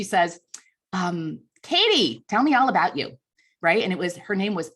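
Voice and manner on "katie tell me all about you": gushing socialite. Retold or imitated. Socialite greets little girl.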